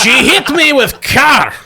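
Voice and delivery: high, giggling broken English; laughing monster voice. Acted. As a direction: crack up mid-complaint. Leviathan complains, laughing.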